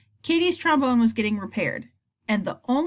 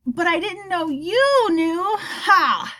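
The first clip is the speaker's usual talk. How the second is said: higher, slow, nervous joking laugh; forced joke laugh; 8 semitones higher, 4 dB louder, much slower than usual. Acted. Boy joking to his strict science teacher, nervous laugh. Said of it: "my attempt at humor".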